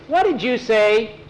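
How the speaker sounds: high, slow indignant demand; sharp challenge. A narrator's reading. Reply to the mocking remark, indignant challenge.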